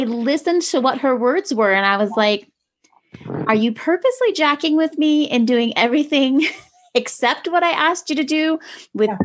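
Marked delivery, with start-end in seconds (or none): 3.5-9.2 higher-pitched, disbelieving retold challenge; incredulous parent, pitched up; mock exasperation. Exasperated mother retelling her challenge.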